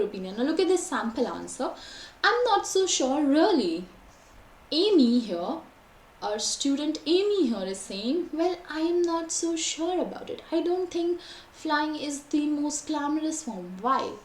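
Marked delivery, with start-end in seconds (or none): 2.2-3.9 sample answer read higher, with a falling end; expressive intonation. Shown as a demonstration. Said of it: "So there's a lot of intonation". 8.3-13.7 raised, lilting pitch on "I am not so sure"; expressive intonation. Shown as a demonstration. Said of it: "So there's a lot of intonation".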